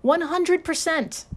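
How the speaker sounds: slow, high, drawn-out announcement of "One hundred percent"; dramatic reveal. Acted. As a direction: unveil it like a game show host after a drum roll. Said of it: "Drum roll, please".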